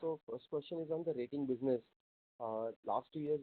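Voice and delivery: very faint, barely audible question; too quiet. Real, not acted. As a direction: ask it far too softly to be heard. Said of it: "speak a bit louder".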